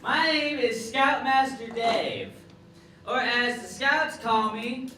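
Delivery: a hammed-up camp leader greeting the kids; lightly voiced, boisterous scoutmaster; scoutmaster character. Character act Scoutmaster Dave.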